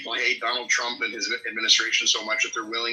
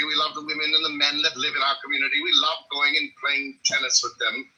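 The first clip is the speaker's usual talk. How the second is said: put-on mid-Atlantic accent; 4 semitones higher than usual. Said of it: "kind of a mid-Atlantic accent".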